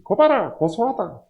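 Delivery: a sneering jeer, pitched high; mocking gloat. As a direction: gloat over the fallen enemy. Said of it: "라고 할 것 같다".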